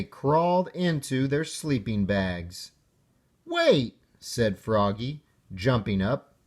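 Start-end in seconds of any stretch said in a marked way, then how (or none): 3.5-4.0 high, sharp "Wait"; sudden alarm. Acted. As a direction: jump up, just remembered. Froggy jumping up suddenly.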